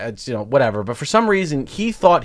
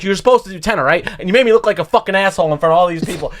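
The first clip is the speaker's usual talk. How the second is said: fast, higher-pitched mock telling-off; retold yelling; 4 semitones higher, faster than usual. Host confronts old comic in the hallway, yelling. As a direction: re-enact an angry outburst at speed. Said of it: "just started yelling at him".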